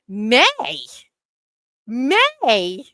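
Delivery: loud stunned repeat of May, rising; can't believe the date she hears; shocked disbelief. Retold or imitated. To the scheduler on the phone, loud shocked disbelief.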